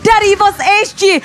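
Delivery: drawn-out, high, excited caster shout; hype call. Real, not acted. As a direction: stretch the words out at a big play. Caster hypes a big teamfight play.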